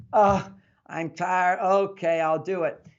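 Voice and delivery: mild mock grumble with a sighed 'uh'; grumble, then give in; reluctant husband, lightly acted; grumbling. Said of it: "sometimes he will grumble".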